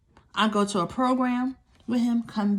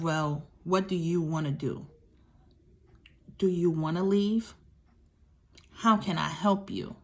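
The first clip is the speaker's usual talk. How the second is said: gentle offer of help; 2 semitones lower than usual. Retold or imitated. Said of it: "something to the extent of".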